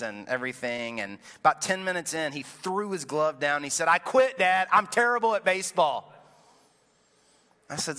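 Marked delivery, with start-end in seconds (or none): 3.9-6.1 put-on loud, frustrated child throwing it all down; a kid shouting that he quits; frustrated outburst. Six-year-old son quits in frustration.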